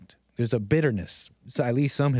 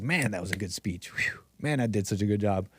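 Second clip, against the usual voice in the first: smug Wilson; 5 semitones lower, 4 dB quieter than usual. Retold or imitated. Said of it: "He's like".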